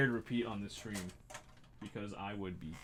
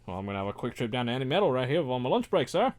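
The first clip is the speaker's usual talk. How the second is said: mock British accent; faster than usual. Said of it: "That accent went, like, four different places".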